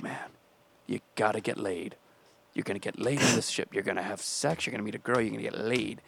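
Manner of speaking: quiet, earnest pep talk to himself; hushed pep talk. Retold or imitated. Teen recording a pep talk for himself, hushed and earnest. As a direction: psych yourself up under your breath. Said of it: "I got on the microphone".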